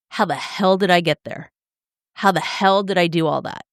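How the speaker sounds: ordinary talk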